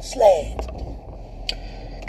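breathy whispered slay. Real, not acted. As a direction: whisper it like a secret boast.

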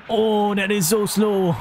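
high-pitched exasperated complaint. Real, not acted. Frustrated reaction to slow play.

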